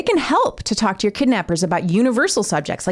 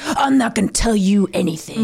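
lightly voiced defiant movie hero; a hint of a defiant tough guy; Harrison Ford, Liam Neeson tough guy. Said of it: "that's a Harrison Ford, Liam Neeson".

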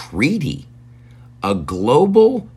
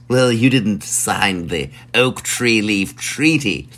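slow, smug brush-off; drawn-out bureaucratic dismissal; smug official reply; slower than usual. Acted. Country rebuffing a desperate ally, slow and smug.

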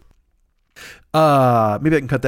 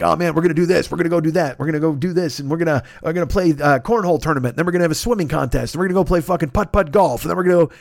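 hyped up friend; 5 semitones higher than usual. Retold or imitated. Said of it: "He's like".

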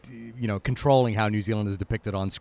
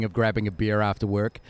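chewing while talking; 4 semitones lower than usual. Real, not acted. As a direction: mouth full of meat. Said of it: "I'm sorry I'm chewing this meat so much".

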